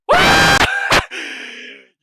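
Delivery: shrieking ecstatic laugh, very high and loud; scream-laugh with pure joy; real shriek of delight. Real, not acted. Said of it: "I'm sorry for screaming".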